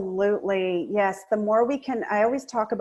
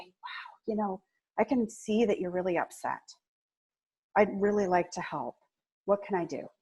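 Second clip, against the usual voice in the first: calm confident empathy; 5 dB quieter than usual. Shown as a demonstration. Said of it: "rise up carefully and confidently and say".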